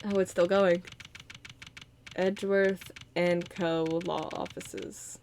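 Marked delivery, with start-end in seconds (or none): 2.1-5.2 each word drawn out slowly; slow read-out. Shown as a demonstration. Streamer reading the new office name slowly. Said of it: "Oh, I was like".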